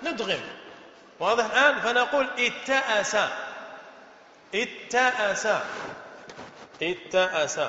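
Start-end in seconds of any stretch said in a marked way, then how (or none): 2.4-3.2 اتأس with a held, doubled t. Shown as a demonstration. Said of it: "بتشديد التاء". 4.5-7.6 اتأس slowly sounded with a doubled t. Shown as a demonstration. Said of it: "بتشديد التاء".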